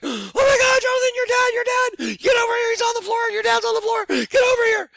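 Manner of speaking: high, loud, frantic yelling; panicked shriek. Retold or imitated. Housekeeper calling the son in panic, shrieking high. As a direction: shriek in terror that he's down. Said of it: "Carmen, she's like".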